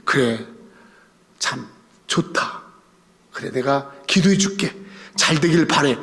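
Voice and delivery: low, gentle mock-approving reply; softly voiced, unhurried blessing; imagined supportive brothers. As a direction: lightly act out a kindly older brother. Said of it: "얘기하면 형들이".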